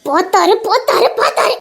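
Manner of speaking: heated insistence. Acted. Quarrel, insisting against denial.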